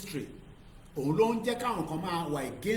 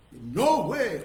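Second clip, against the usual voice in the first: loud rejection; 3 semitones higher, 8 dB louder than usual. Real, not acted. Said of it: "emphatic rejection".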